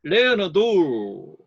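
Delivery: slow 레오나르도 with stress on 레 and 르; 레오나르도, slow and deliberate, beats on first and third; strong-weak-strong. Shown as a demonstration. Teacher slowly demonstrating strong-weak-strong 레오나르도. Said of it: "강약강으로 하면".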